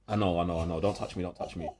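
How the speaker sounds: soft, giggly protest; laughing. Real, not acted. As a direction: laugh while pushing them away. Fending off a friend, laughing.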